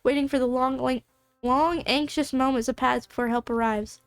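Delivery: real tongue-tied narration with restarts; stumbling over words. Real, not acted. Game master narrates the wait, stumbling over words. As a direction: trip over words, stop and retry. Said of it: "I'm stuttering over, like, almost every sentence".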